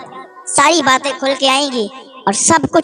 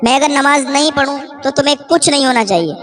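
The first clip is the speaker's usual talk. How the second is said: ordinary delivery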